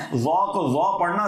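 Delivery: slow, careful وا کو وا; correct letter sound. Shown as a demonstration. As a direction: stretch out وا کو وا clearly. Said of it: "ہا کو ہا پڑھنا". (حرف وا کو صاف اور آہستہ ادا کریں)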